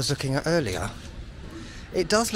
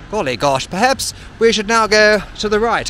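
hammed-up British royal accent, higher and louder; royal English accent; 6 semitones higher, 8 dB louder than usual. Choosing the way to the viewers, a mock royal English accent. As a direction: exclaim like an English aristocrat. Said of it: "I should do my royal accent all the time".

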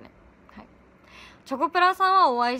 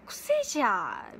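Chidori impression; slower than usual. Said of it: "千鳥さんってでも声とか難しいよね".

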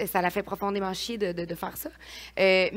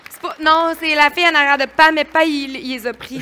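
choked up, fighting back tears; crying; 7 semitones higher, 14 dB louder than usual. Real, not acted. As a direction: voice breaking through tears. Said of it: "je pleure de même".

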